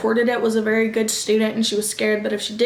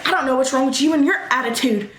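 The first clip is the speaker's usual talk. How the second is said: mocking comeback; 2 semitones higher, faster than usual. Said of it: "I was just mad".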